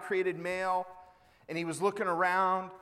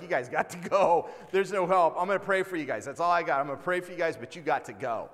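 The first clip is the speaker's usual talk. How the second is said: imitated exasperated counselor; 5 dB louder, faster than usual. Counselor kicking the couple out, acted exasperated and loud. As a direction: send them away as a counselor at a loss.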